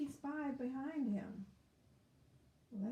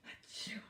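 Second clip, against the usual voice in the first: mock sneeze; 7 dB quieter than usual. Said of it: "made him sneeze".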